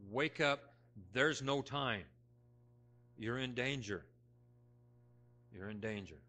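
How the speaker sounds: stern warning. Retold or imitated. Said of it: "in a very quick, stern fashion".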